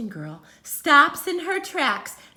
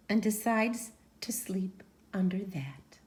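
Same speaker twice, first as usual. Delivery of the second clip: whispered aside; 4 semitones lower, 5 dB quieter than usual. Acted. Whispered ending.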